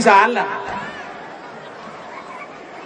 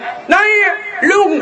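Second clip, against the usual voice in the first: higher, clipped southern call; southern Thai accent; 9 semitones higher, much slower than usual. Retold or imitated. Preacher imitating southerners calling between trains, in a southern Thai accent. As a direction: fire it off short like a southerner passing on a train. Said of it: "รถไฟสองขบวนสวนกันว่า".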